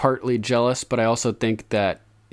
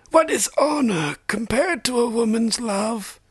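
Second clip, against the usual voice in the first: put-on very high, slow old man's voice; aged maester. A narrator's reading. Old maester telling Jon about love and duty, aged voice. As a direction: speak as an ancient scholar, drawn out and high.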